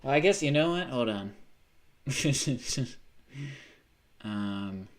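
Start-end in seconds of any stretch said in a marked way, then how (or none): 2.1-3.0 short laugh at normal volume; real chuckle. Real, not acted. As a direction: break off into a brief laugh. Breaks off to laugh.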